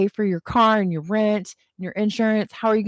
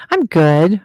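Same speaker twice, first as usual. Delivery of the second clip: louder emphatic reassurance; 7 dB louder than usual. Real, not acted. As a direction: punch it out brighter. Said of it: "emphatic repeat".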